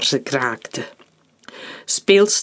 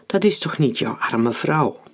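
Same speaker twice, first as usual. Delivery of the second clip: mock sympathetic. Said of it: "klonk het gespeeld medelevend".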